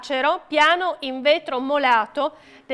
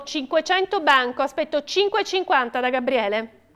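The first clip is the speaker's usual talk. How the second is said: auctioneer. Acted. Auctioneer calling out bids.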